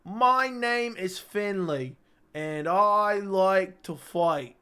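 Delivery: slow, deliberate fighter's declaration in an odd voice; brawler's battle cry. Acted. Mock wrestler beating his fiance, slow and hammed-up. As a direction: announce yourself like a pub brawler mid-fight. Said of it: "while saying".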